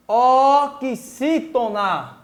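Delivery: "Oxítona" very slowly, syllable by syllable; slow sounding-out. Shown as a demonstration. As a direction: stretch "Oxítona" out for learners. Teacher sounds out the new term.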